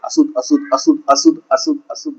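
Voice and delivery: high, thin calls of unclean, partly whispered; preacher voicing a leper's warning cry. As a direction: call out like an outcast warning the crowd. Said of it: "और वो क्या बोलता था?".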